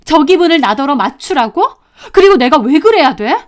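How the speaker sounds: refuse, appalled at the suggestion; wife bristling; incredulous indignation. Acted. Wife rejects husband's request.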